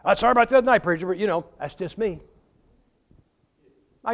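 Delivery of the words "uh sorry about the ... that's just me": imitated throwaway apology; offhand apology. Church member to preacher after outburst, offhand apology. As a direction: toss off a token sorry, tailing away. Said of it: "he said it like this".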